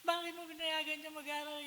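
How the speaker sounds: angry sister-in-law. Retold or imitated. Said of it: "galit na galit yung mahipag ko".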